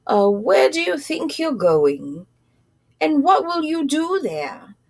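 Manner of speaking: lightly voiced friendly man, rising; a hint of a curious stranger asking. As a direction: kind passenger asking the mouse, lightly voiced. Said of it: "asked with a friendly stare".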